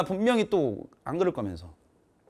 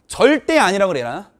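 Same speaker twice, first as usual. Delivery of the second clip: normal talking voice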